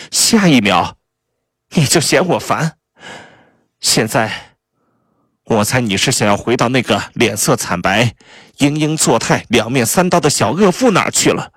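high-pitched, scornful spouse in a tirade; bitter Kay. Acted. Betrayed spouse berating Neville over the ex-wife, high and bitter. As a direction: pile up accusations, high and biting.

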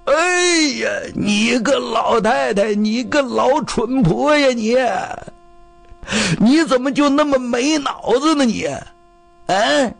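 high-pitched angry tirade at the wife; angry scolding. Acted. Cornered husband takes his temper out on his old wife, angry scolding. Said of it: "骂老太太".

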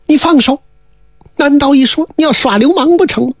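a hint of a coy young widow crying foul; coquettish demon widow. Storyteller voices the demon widow.

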